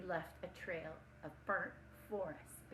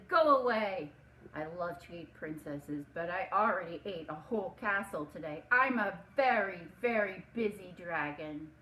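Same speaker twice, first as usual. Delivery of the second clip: dragon voice; 6 dB louder than usual. Acted. Dragon answers at the door.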